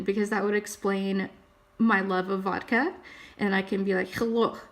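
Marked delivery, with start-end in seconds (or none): 4.1-4.6 quick hello in a Russian accent; playful Russian-accented greeting. Shown as a demonstration. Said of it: "I can do the accent pretty good".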